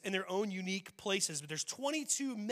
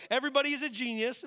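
quote said louder; 6 semitones higher, 6 dB louder, faster than usual. Acted. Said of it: "here's the quote".

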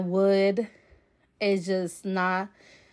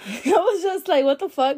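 "What the fuck?" tossed off higher through a laugh; amused what the fuck, said a bit higher; laughing disbelief; 7 semitones higher, 3 dB louder than usual. Retold or imitated. Retelling shock, laughing.

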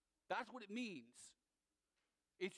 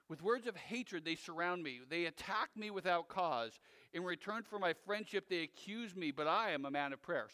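psalm reading; 2 semitones lower, 3 dB louder than usual. Acted. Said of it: "Listen to how this goes".

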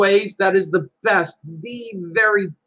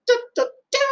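emotional joy; 8 semitones higher than usual. Real, not acted. Parent overcome with pride.

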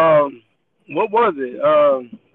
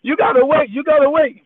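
lightly voiced Indian accent, higher and louder; 7 semitones higher, 4 dB louder than usual. Cashier insisting the customer wait, mock Indian accent. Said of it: "my Indian accent".

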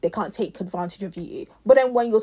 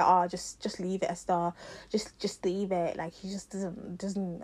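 much softer, trailing away as you soothe; placating retold voice; 2 semitones lower, 8 dB quieter, slower than usual. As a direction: imitate friends quietly talking someone down. Friends retold placating her in argument.

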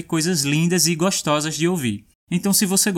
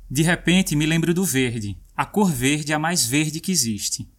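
poem reading. Acted. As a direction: savour each V in verde. Reads Leminski poem aloud.

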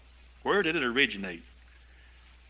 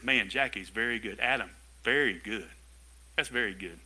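God's voice; 4 semitones lower than usual. Acted. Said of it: "He says".

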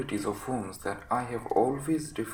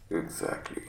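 very low, croaky sick man's voice; croaking invalid. Acted. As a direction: croak it out weakly from the sickbed. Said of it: "was croaking".

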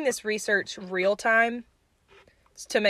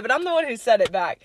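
ordinary delivery

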